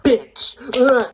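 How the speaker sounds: high, loud mock desperation; hammed-up plea ending in a groan; desperate. Showing how someone desperate says it, pleading. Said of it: "you're super duper desperate".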